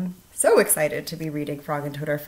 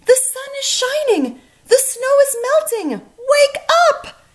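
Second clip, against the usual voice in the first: much higher, loud, bubbling over; excited calling; 10 dB louder than usual. A narrator's reading. Frog calling Toad outside, loud excited announcement. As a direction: announce spring like the best news. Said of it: "cried Frog".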